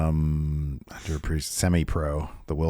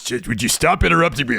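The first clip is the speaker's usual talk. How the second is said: angry outburst; 9 semitones higher than usual. Acted. Snapping at co-host interruptions.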